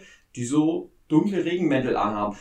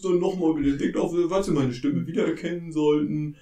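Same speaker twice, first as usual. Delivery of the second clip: airport announcement; 5 dB louder than usual. Acted. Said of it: "Ich bin nur die Stimme".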